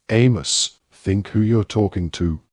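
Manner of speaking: put-on an angry father defending the boy. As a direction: snap at Amos in anger. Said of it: "very angrily".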